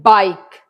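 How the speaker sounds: "bike" with no sound for the final E; silent E. Shown as a demonstration. Teacher demonstrates a silent letter, "bike" ending on K without E. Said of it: "ई की sound नहीं आ रही".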